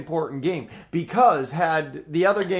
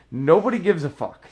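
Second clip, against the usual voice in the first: retold yell, somewhat louder; mild mock yell; 3 semitones higher, 5 dB louder than usual. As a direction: imitate yelling someone down, held back. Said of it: "yelled at the top of my lungs".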